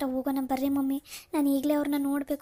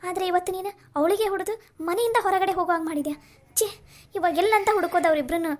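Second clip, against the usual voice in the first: exasperated scolding; 4 semitones higher, 3 dB louder than usual. Acted. Scolding, despairing.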